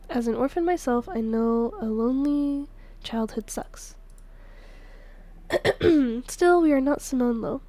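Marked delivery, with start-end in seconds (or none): 1.1-3.9 slow whispered confession; a slow private whisper. Acted. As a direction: breathe it out slowly, voiceless. Confiding orphan memory.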